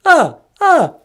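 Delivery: hammy Transylvanian vampire with staccato laugh; swooping, drawn-out puppet-vampire greeting; Count Von Count. Acted. Count greeting the host on air, theatrical vampire voice. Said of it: "Count Von Count".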